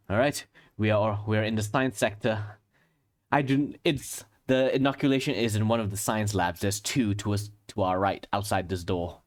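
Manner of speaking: put-on lightly British-accented character voice; a hint of British in the accent. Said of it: "why does he keep becoming British".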